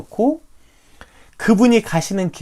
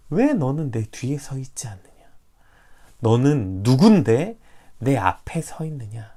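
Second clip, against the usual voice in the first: whispered question; 3 semitones lower than usual. Retold or imitated. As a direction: breathe the question like an inner voice. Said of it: "묻고 계시는 것 같았어요".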